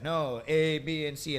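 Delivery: retold straightened-up reply to the interviewer; changed, businesslike tone. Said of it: "I curved my entire tone".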